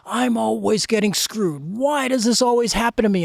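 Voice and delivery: half-strength retold rant; mock frustrated yelling. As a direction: complain forcefully, imitating an exasperated man. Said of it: "he's cursing and screaming and yelling".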